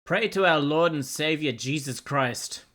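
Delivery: hammed-up preacher intoning; mock preacher. Streamer trolling the AI with preachy advice.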